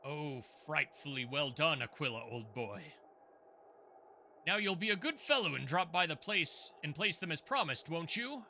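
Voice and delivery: put-on plummy upper-class old boy; weird posh voice. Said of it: "What is that weird posh voice?".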